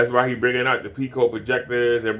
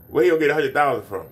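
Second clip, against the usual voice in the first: incredulous challenge; 3 semitones higher, much faster than usual. Retold or imitated. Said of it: "And I'm like".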